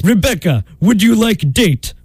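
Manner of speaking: put-on Russian accent. Disguised suitor asking Rebecca out, Russian accent. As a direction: woo in a mock Russian accent. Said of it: "practiced his Russian accent".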